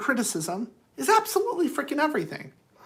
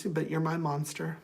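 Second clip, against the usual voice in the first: soft, tender reassurance; gentle, tender; 3 semitones lower, 7 dB quieter than usual. Acted. Someone comforting their monster at the end of the day, tenderly. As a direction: say it gently, voice dropping softer. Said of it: "very gently touches your face and says".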